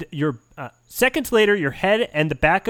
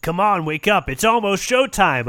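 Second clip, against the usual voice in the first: raspy whisper; 4 semitones higher than usual. Acted. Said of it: "a raspy voice says".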